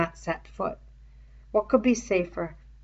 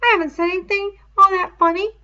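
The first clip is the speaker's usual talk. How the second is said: put-on prim, high, fast boyish reproach; dignified rebuke; 12 semitones higher, 10 dB louder, faster than usual. A narrator's reading. Piggy rebuking laughing Ralph, high prim voice. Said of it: "rebuked him with dignity".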